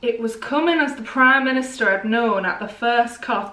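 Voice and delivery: put-on northern English accent, Manchester-sounding; attempted northern accent landing in Manchester. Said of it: "that's just Manchester again".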